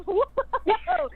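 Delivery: delighted gasp of a word; mock amazed. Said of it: "And I was like".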